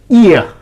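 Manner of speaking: ear drawn out as a clear glide; diphthong demo. Shown as a demonstration. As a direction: say ear slowly, gliding between the vowels.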